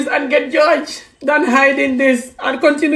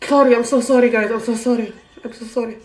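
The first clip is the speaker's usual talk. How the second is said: crying; 3 semitones lower than usual. Real, not acted. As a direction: apologise through tears, voice dropping away. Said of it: "I don't mean to cry like this".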